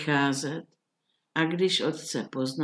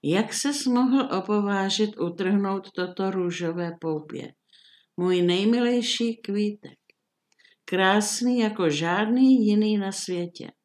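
a booming monster roar, raised and loud; thundering beast voice; 3 semitones higher, 4 dB louder than usual. Acted. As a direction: thunder at the trespasser like an angry beast. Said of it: "zahřměla hromovým hlasem".

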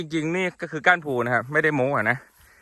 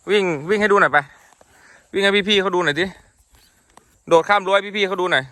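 raised, higher urging voice; coaxing command; 4 semitones higher, 3 dB louder than usual. Real, not acted. Telling his horse to show the viewers a jump, coaxing command. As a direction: call out to get the horse moving.

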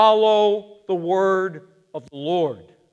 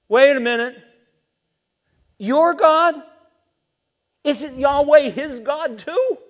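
"Wait" pushed higher, a sharp disbelieving stop; incredulous; 6 semitones higher, 7 dB louder than usual. Shown as a demonstration. Preacher catching Saul's slip, higher and disbelieving. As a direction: catch the lie mid-sentence.

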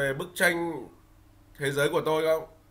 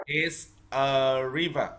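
slow model phrase; slower than usual. Shown as a demonstration. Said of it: "Con đọc đi ạ".

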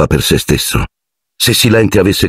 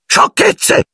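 bellowing. Acted. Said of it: "sbraitò Filch".

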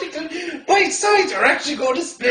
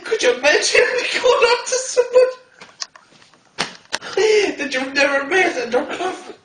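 laughing; 3 semitones higher, faster than usual. Real, not acted. Laughing, near tears.

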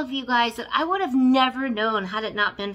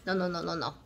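laughing; 3 semitones lower, much faster than usual. Real, not acted. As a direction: giggle the refusal. Laughs off Swedish phrase.

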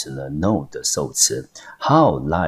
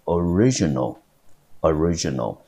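original with the stress on RI; teacher's demo of original, RI stressed; stress on second syllable. Shown as a demonstration. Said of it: "重音节落在第二个音节".

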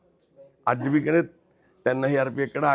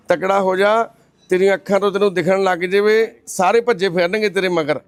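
higher, lifted pep talk; rousing encouragement; 5 semitones higher, 4 dB louder than usual. Real, not acted. Cheering up a crying blind man, rousing encouragement. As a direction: buck him up with a raised voice.

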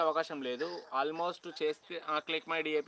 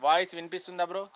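calling loudly across the campus; shouting outdoors; 3 semitones higher, 7 dB louder than usual. Real, not acted. Vlogger shouting to live viewers without a mic. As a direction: project it so the phone picks you up. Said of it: "కొంచెం గట్టిగా అరుస్తున్నాను".

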